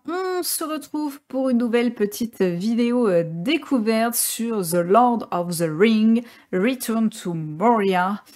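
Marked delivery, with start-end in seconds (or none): 4.6-8.2 slow, self-consciously English "Return to Moria"; jokey put-on English accent on the game title; mock English accent. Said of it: "Avec mon accent anglais incroyable".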